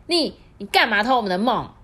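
high, quick accusing fox voice; little fox blurting. Acted.

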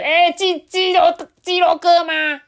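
high, loud shout of the name; nervous loud hail; loud call. Acted. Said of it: "卡兹大声的叫说".

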